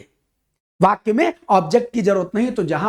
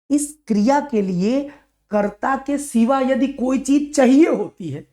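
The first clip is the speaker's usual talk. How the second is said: slow emphatic explaining; 4 semitones higher than usual. Shown as a demonstration. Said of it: "slow explaining".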